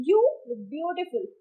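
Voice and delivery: slow demonstration with weight on "beautiful"; stress on beautiful. Shown as a demonstration. Teacher repeating an example sentence, stressing "beautiful". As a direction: say it slowly, giving "beautiful" full focus. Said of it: "ब्यूटीफुल पर ज्यादा focus कर रही हूँ".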